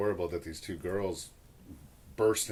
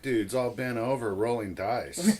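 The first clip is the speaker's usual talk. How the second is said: raised-voice bystander jibe; mock heckle; 6 dB louder than usual. Bandmate plays a passerby spotting the dice players, mock heckle. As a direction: call out like a mocking onlooker.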